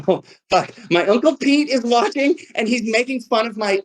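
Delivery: high, laughing surprise; laughing aside. Real, not acted. Poet spotting his uncle teasing him on stream, laughing high. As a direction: laugh as you spot your uncle.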